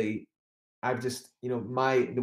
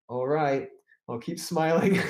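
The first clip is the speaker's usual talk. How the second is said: forced cheer; 5 semitones higher, 3 dB louder than usual. Retold or imitated. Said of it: "I was like".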